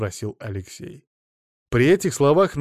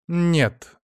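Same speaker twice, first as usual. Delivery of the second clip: curt refusal; 7 semitones higher, 6 dB louder than usual. A narrator's reading. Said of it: "отрезала Нечаева".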